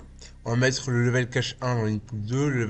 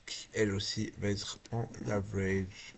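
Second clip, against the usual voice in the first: whisper; 3 semitones lower, 10 dB quieter than usual. Real, not acted. Quiet aside while building patch.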